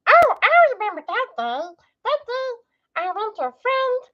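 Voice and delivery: high, loud put-on narrator; hammed-up storyteller voice; dramatic storyteller voice. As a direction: tell it like a big dramatic tale.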